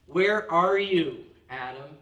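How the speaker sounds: slow, loud call that fades on the name; God calling out. Acted. God calls to Adam after the fall, loud and slow. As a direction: call out to the one who has hidden.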